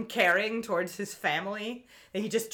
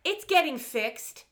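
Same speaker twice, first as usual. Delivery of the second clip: higher, drawn-out mock girl voice; cartoon girl; 7 semitones higher, slower than usual. Sally explaining a missing compass, mock cartoon girl. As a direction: answer slowly and high as the cartoon girl.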